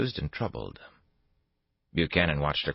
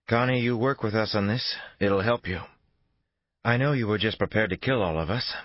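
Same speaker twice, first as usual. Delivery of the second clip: higher female voice, firm and pressing; Reynolds' voice; 7 semitones higher, 4 dB louder than usual. A narrator's reading. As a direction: voice Reynolds leaning on Connie hard.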